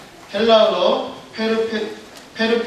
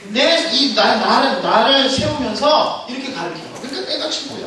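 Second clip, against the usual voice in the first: raised, cocky bragging voice; boastful finger; 4 semitones higher than usual. Acted. Index finger mocks the thumb, cocky and raised. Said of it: "두 번째 손가락이 이렇게 말합니다".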